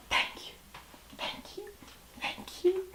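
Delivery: soft, breathy-faint mock thank-yous; mock acceptance. Mocking the girls as award winners, soft mock thanks. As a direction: play a tearful winner, hammed up. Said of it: "And the Academy Award goes to".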